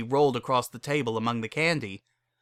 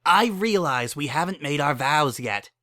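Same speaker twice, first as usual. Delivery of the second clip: snapping; 4 semitones higher than usual. Acted. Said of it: "snapped Lyra".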